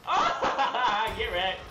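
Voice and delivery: laughing through a quick taunt; laughs, then taunts the enemy he killed. Real, not acted. Gamer laughing at his viewers, then taunting the enemy he killed. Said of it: "You guys love that laugh".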